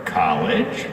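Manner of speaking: pause, then "college" dropped low with a rise; punchline after pause. Shown as a demonstration. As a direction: hold the beat, then land "college" low. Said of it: "wait for it".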